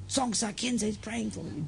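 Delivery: soft, slow echo of a remembered voice; quietly quoting words heard in a coma; recalled bedside words. Retold or imitated. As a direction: drop the volume and slow down. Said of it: "I remember you said to me".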